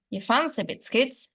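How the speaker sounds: "fancy" stressed with a full rising tone; contrastive stress on fancy. Shown as a demonstration. Teacher demonstrating a contrastive question, "fancy" stressed and rising. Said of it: "also signaled by the full rise tone".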